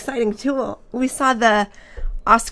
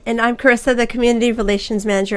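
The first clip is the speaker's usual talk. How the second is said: hoarse voice. Real, not acted. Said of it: "I'm losing my voice a little bit".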